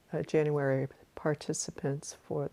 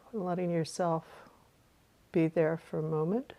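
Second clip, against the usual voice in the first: calm meditation guide with long pauses; guided meditation. Real, not acted. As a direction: guide listeners through a breath, unhurried.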